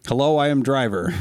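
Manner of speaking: imitating a Russian trucker, half-hearted; mock Russian trucker. Host mocking a Russian trucker's message, light Russian accent. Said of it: "I'm not gonna try to do a Russian accent".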